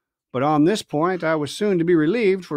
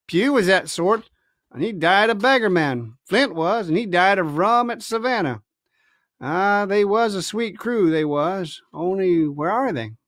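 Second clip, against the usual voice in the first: grim pirate; 2 semitones higher than usual. Acted. Silver voiced.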